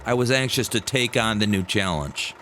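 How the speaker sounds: ordinary delivery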